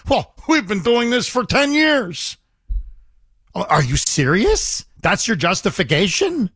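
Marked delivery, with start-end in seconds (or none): 0.1-2.4 higher, sneering imitation of her excuse; mocking quote. Caller mocking the official's excuse to the host, higher mocking voice. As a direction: parrot her excuse back with scorn. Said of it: "now she's trying to pass it off like".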